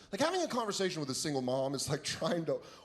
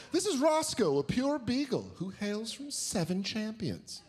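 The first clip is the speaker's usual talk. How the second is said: dog show announcer; 5 semitones higher than usual. Retold or imitated. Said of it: "broadcasters with hushed tones".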